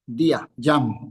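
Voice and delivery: Yam said slowly and distinctly; careful pronunciation. Shown as a demonstration. Teacher contrasting Yom and Yam for students, slow and careful. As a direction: spell out día, Yam slowly. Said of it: "no hay que confundirlo".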